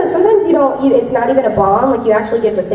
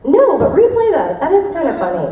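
amused laughing reply; 7 semitones higher than usual. Retold or imitated. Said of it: "I'm like".

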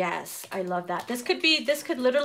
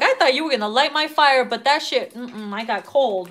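mock disappointment; 5 dB louder than usual. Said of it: "You're like".

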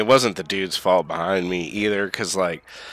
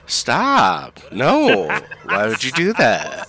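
lightly voiced pleading cries, higher; half-hearted, higher mock protest; 6 semitones higher, much slower than usual. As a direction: imitate a meek plea to stop. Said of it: "Kristen Wiig's like".

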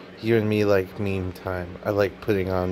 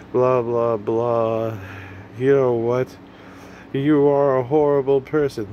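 mock scolding critic; 3 semitones higher than usual. Imagined critic calling the vlogger horrible, mock scolding. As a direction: put on a whiny accuser building to a higher pitch.

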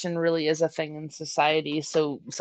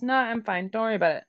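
lightly brushing off concern; higher "nah", easy and unworried; honest reassurance; 4 semitones higher, faster than usual. Acted. Explaining the honest meaning, easy reassurance. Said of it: "like, an honest".

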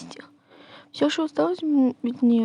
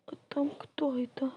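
whisper; 5 dB quieter than usual. Pretend. Peeking at a stranger, whispering.

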